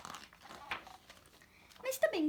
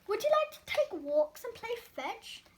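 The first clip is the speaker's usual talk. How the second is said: excited; 5 semitones higher than usual. Acted. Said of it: "Mister Bing asked excitedly".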